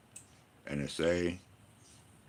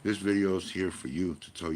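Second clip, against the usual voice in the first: emphatic; 4 semitones higher than usual. Retold or imitated. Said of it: "And I go".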